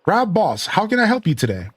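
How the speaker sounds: high, lilting Scottish character voice; Scottish accent. Acted. Game character asks a visitor how to help, Scottish accent. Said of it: "It's the Scottish accent makes the joke".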